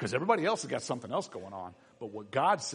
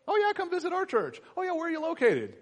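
much higher, chirpy play-acted dialogue; mock chatter; 3 dB louder than usual. Preacher acting churchgoers, much higher playful chatter. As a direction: ham up a friendly invite.

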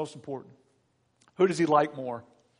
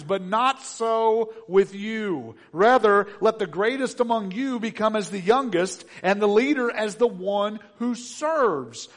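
scripture reading; 6 semitones higher, 7 dB louder than usual. Acted. Preacher reading Jesus' words at the table, solemn reading. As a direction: read the words of Jesus with weight.

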